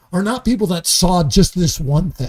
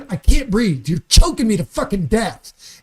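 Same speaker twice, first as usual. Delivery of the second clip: pleading victim; 5 dB louder than usual. Retold or imitated. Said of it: "begged for his life and said".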